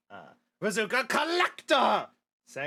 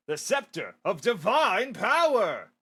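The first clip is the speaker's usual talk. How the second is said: slow, louder dramatic unveiling; grand reveal; 5 dB louder, slower than usual. Acted. Museum manager showing off the scepter, dramatic reveal. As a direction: unveil it like a showman.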